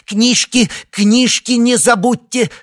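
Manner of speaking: высокий громкий нарочитый выкрик; прокричи, чтобы отвлечь; громко для санитарки. A narrator's reading. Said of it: "Синайский быстро сказал". (громкий высокий выкрик, медленно)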